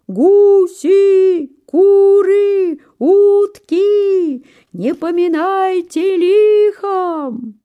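very high, loud, slow farewell; gander's farewell cry. A narrator's reading. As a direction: call back from the sky as he leaves. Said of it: "гусак кричал".

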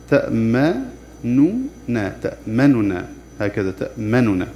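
تأمننا with the damma on the first nun cut to two thirds; snatch the vowel on the nun in تأمننا; ikhtilas. Shown as a demonstration. Teacher demonstrates ikhtilas in تأمننا to students. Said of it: "أولا الاختلاس".

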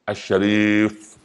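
الشريف drawn out very slowly, with the article; الشريف said slowly and carefully; proper form. Shown as a demonstration. Preacher correcting how people say the name: الشريف, slow. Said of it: "حتى الاسم اللي انطقه غلط".

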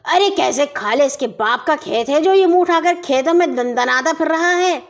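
angry roar. Acted. Mulla roaring at the neighbor over his bull, angry. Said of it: "غصے سے دھاڑے".

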